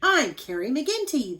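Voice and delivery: bright big hello; giantess introducing herself. Acted. Giant woman greeting Paul in the cave, loud and cheerful. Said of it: "the gigantic woman said".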